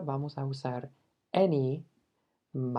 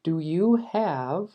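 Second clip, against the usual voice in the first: slow wrong model; 2 semitones higher, 4 dB louder, much slower than usual. Shown as a demonstration. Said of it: "la traducción literal".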